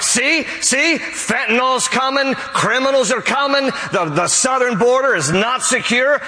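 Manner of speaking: hammed-up "see, I told you" panic; preacher mimicking Republicans in Congress in mock alarm. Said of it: "the Republicans are like".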